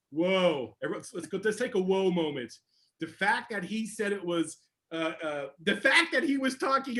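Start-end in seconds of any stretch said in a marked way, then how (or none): 0.1-2.5 calming down. Retold or imitated. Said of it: "and I'll go".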